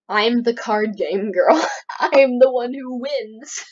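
loud, slow, hammed-up indignation; mock outrage. Card game player protesting a loss, mock outrage. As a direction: declare it with playful wounded pride, loud and drawn out.

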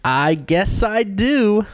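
hammed-up eager acceptance; playful enthusiasm. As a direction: stretch it out with playful keenness. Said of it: "I love your enthusiasm".

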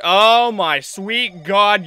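loud, drawn-out protest at noise; real loud, slow outburst; startled exclamation. Real, not acted. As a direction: cry out at a blaring sound. Reacts to loud game sound.

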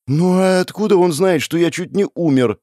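put-on high-pitched worried boy; rattled, pleading question; anxious. A narrator's reading. Scared boy keeps asking.

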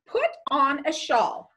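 firm order with a falling end; direct command. Shown as a demonstration. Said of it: "had to be a direct command".

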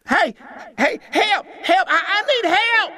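very high, loud terrified cry; panicked scream. Acted. Young boy calling the older boys for help from the rocks, a panicked high scream. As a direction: scream for help, voice cracking with fear. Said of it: "screamed one of the younger boys".

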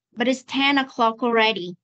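"But it's ten o'clock already" joined in one run; fast linked reading. Shown as a demonstration. Teacher rereads for a student, fast linked reading. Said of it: "Con đọc nhanh này".

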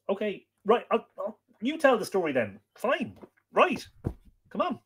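high, coaxing voice to the dog; playful high talk to a pet. Real, not acted. Chatting with dog and child.

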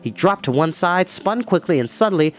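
steady storyteller reading an adventure aloud; story narration. A narrator's reading. Storyteller reading a battle chapter to kids, dramatic narration. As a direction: read the fight scene to the kids, building tension.

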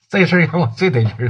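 fast, laughing through the words; chuckle, thrilled and grateful; laughing with delight. Acted. Zhuzi thanking Zhao San on the phone, laughing happily.

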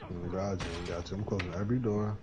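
whispering while hiding. Real, not acted. Hiding from enemy in game.

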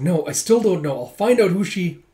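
determined. Retold or imitated. Onlooker vows to find out who the dancer is, determined. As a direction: insist you'll get to the bottom of it. Voicing determined character, cut off.

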